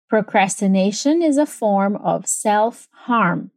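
slow, careful model sentence; measured teacher's demonstration, word by word; repeat-after-me model. Shown as a demonstration. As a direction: say it slowly for students to copy. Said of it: "So repeat after me".

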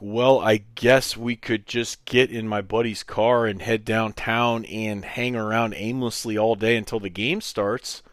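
mildly sarcastic suggestion; understated retold sarcasm; half-sarcastic. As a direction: offer it with a touch of sarcasm, expecting a no. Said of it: "in a half voice of sarcasm".

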